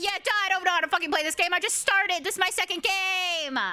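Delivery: high, indignant mock protest; retold exasperated retort. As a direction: fire back in exaggerated exasperation. Retold argument with League teammates.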